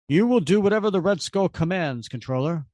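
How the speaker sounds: lightly voiced commanding henchman; the Voice orders the controller, a mild menacing edge. Voice commanding the controller, lightly voiced menace.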